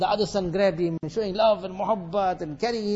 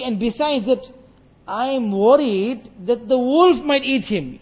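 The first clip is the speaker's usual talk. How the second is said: grieving father; 3 semitones higher, 3 dB louder than usual. Acted. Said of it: "He said".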